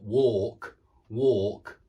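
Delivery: British "walk" with a long rounded aw; British pronunciation. Shown as a demonstration. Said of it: "like in British English".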